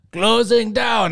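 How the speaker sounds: high, loud, slow mock Russian accent.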